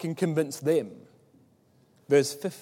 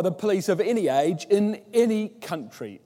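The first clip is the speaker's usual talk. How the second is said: emphatic restatement; 3 semitones higher, 4 dB louder than usual. Shown as a demonstration. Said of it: "repeats the quote with emphasis".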